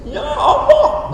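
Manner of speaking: very high, drawn-out imitation wail; mock tearful plea. Novice leader trying to make worshippers cry, mock tearful plea. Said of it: "untuk buat orang nangis saya nggak bisa".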